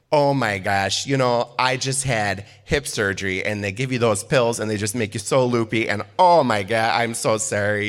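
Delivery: imitated South Dakota accent, loopy apology; mock tipsy South Dakota mom excusing herself; lightly hammed-up South Dakota accent; thick South Dakota accent. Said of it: "she has a very thick accent".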